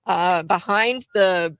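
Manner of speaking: high, incredulous veteran; veteran quote. Retold or imitated. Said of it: "he goes".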